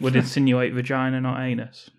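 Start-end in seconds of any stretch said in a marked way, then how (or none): 1.2-1.9 hushed aside; whispering. Real, not acted. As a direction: drop to a whisper. Naming the word half-aloud.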